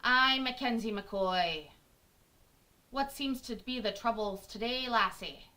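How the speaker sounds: playful Scottish lilt; Scottish accent. Acted. Streamer playing a Scottish lass, playful Scottish accent. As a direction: put on a broad-vowelled Scottish accent. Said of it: "sounds like a Scottish lass".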